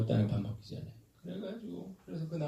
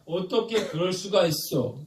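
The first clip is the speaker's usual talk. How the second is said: slow, higher mock outrage; acted indignation; 5 semitones higher than usual. Voicing the feeling that starts fights, acted indignation. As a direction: act out "how could you?" in drawn-out disbelief. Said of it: "어떤 마음이 생기냐면".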